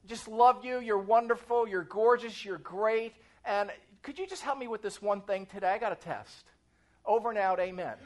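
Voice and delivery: mock flattery sliding into a small request; butter them up, then slip in the favour; buttering up God. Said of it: "I praise him like I'm supposed to, 'cause you gotta butter up God".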